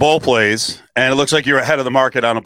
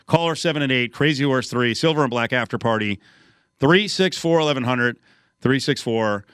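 punchy announcer read of the contest line; radio promo read. Acted. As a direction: sell the party like a live ad.

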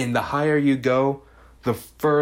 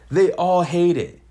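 louder disbelief; 6 semitones higher, 5 dB louder than usual. Real, not acted. Exasperation at fans.

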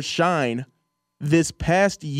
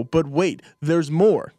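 infomercial pitch; slower than usual. Shown as a demonstration. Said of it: "I'm gonna be an infomercial guy".

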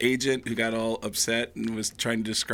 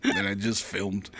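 lightly voiced fellow comedian; a hint of the comedian introducing clips; Dave Chappelle; 5 semitones lower, 6 dB quieter than usual. Headliner telling club crowd about his new show, lightly imitated. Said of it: "opening for Dave Chappelle once".

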